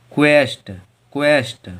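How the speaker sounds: क्वेस्ट said "kwest" with a W glide; model pronunciation. Shown as a demonstration. Teacher drills क्वेस्ट after spelling it. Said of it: "Q U E S T".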